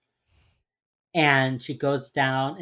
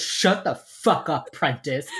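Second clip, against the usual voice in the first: mock angry; 3 dB louder, slower than usual. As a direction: play the boss shutting her down, hammed up. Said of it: "emotionally he says that".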